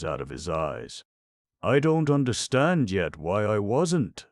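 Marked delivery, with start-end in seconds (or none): 1.6-4.3 high, louder wonder; amazed admission. Acted. Young king puzzling over his survival, high and louder. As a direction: sound bewildered and amazed. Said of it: "admitted Randy".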